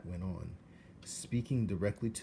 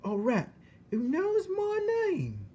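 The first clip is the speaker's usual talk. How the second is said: very high, loud, slow rough shout; 6 dB louder than usual. Acted. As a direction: bellow it in amazed delight. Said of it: "shouted Mig".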